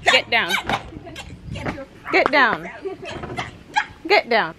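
firm get down to the dog; firm command. Real, not acted. Telling the dog off the couch, firm. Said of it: "You ain't have to say it like that".

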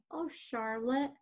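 slow, mildly moved sigh of a line; touched, drawing the words out a little; overcome with emotion. Acted. Wilbur to his friend Charlotte, moved to tears, emotional. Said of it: "recovered from his emotion".

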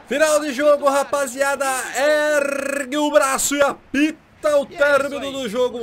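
high, loud, slow celebration; triumphant shout. Real, not acted. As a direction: announce the win in triumph. Celebrating win. (grito de vitória)

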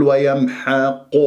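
ويمحق with قا rounded toward قو; wrong lip rounding. Shown as a demonstration. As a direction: round the lips on the end of ويمحق. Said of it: "ولا تقول".

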